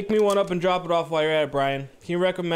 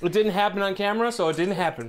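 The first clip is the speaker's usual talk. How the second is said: laughing; 2 semitones higher than usual. Real, not acted. Joking while laughing.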